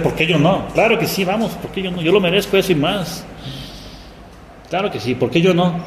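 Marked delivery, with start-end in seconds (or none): 0.7-3.2 upbeat eagerness. Shown as a demonstration. Upbeat answer to the question. 4.7-5.7 upbeat, higher eager yes; keen and willing. Shown as a demonstration. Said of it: "cambiar la respuesta".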